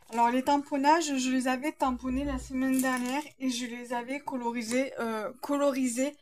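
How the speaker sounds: slight lisp on s sounds; lisping from a sore tongue. Real, not acted. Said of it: "je zozote un peu".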